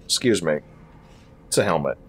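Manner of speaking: low, offended correction; indignant low voice. Acted. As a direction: stiffly correct the insult. Baldric indignant about his helmet.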